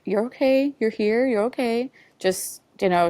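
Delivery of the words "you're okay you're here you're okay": calm her down like a kind nurse; soothing nurse. Retold or imitated. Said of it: "the woman was like".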